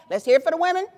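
a loud rally cry to the audience; calling for applause. Real, not acted. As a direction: call the crowd to cheer the women.

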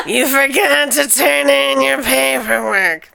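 Mike Wazowski voice. Retold or imitated. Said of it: "Mike Wazowski".

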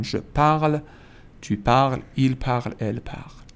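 "parle" and "parles" both end on the L, no final vowel; silent endings. Shown as a demonstration. Teacher shows students three identical forms, endings silent in "parle". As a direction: say "parle" as one syllable, last letters silent. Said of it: "تلفظ هر سه تا یکیه و بدون حرف آخره".

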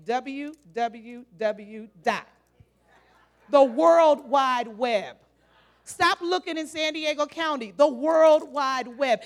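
slowly spelt out, low; slow emphasis. Shown as a demonstration. Preacher naming the web to the congregation, slow drawn out. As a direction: draw each word out. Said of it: "drawing out the web address".

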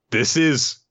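real amused laughter while talking; laughing. Real, not acted. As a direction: laugh through the words. Laughing while praising the chapter.

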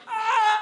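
high loud panicked yelp; cartoon scream. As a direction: squeal like a cartoon wipeout. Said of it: "and I'm like".

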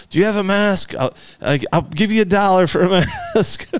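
high, lightly voiced pleading to strangers; begging. Man on the street corner begging strangers for a mask, lightly pleading. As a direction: beg passers-by for a mask. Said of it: "begging people".

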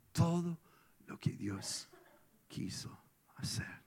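hushed, dropped to a whisper; solemn whisper. Real, not acted. Pastor driving home his point to the congregation, solemn whisper. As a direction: let it fall to a whisper.

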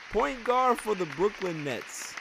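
drawn-out awards-show reveal, slow on the name; award announcer. Pretend. Podcast host unveils his dummy of the week, slow announcer reveal. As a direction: announce the winner like a gala host after a drum roll. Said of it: "May I have the drum roll".

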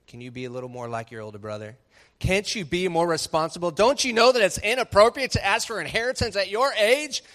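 mock scolding father. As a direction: lecture the son, rising into exasperation. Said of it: "the father didn't say".

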